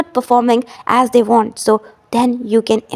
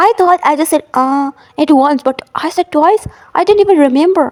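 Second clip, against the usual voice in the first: higher, puzzled self-discovery; surprised realization; 4 semitones higher than usual. Retold or imitated. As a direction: catch yourself repeating words, surprised. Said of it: "you'll observe that".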